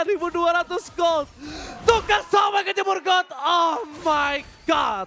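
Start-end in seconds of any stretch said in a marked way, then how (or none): 1.9-5.1 shocked shout. Real, not acted. Reacting to gold lead.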